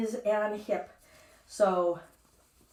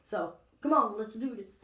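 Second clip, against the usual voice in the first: mild mock determination. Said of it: "I'm like".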